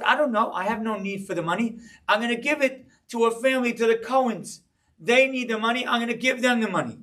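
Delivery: a hint of a guileless boy; little kid voice. Rabbi retelling his childhood answer in a light child voice. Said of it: "I'm a little kid".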